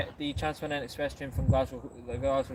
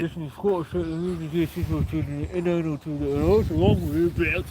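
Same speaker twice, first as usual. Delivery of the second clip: lightly voiced impression of his mate, higher; impression of friend; 3 semitones higher than usual. Friend mimicking the vlogger's way of talking. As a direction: mimic your friend's Scottish voice, a touch higher. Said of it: "that's a pretty solid impression of you".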